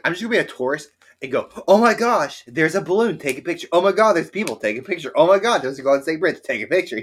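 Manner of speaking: high, loud giddy tourist; gushing tourist. Pretend. Pretending to be a tourist in San Francisco, high and gushing. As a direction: squeal over every sight like a tourist.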